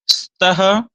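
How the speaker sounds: स्तः as 'staha', beginning right on the 's'; pure initial s. Shown as a demonstration. Teacher reciting the correct forms, pure initial s. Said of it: "सीधे स निकल रहा है".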